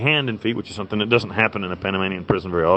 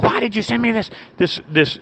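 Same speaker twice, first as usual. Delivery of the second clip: shrill, much higher panicked demand; freaking out warden; 11 semitones higher than usual. Retold or imitated. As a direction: squeal it like a flustered official. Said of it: "she freaks out".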